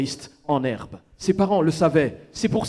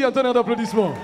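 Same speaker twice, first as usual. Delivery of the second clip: announcer call; 4 semitones higher, much faster than usual. Real, not acted. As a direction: hype the crowd like a host. MC announcing act.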